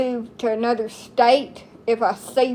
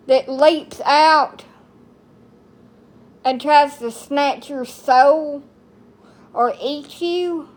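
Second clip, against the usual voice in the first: dramatic build; 4 semitones higher than usual. Real, not acted. Dramatic cricket horror rant.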